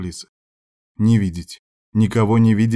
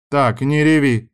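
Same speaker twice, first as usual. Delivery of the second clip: strict scolding; 5 semitones higher, 4 dB louder, slower than usual. A narrator's reading. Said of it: "строго одёрнула меня леди Дороти".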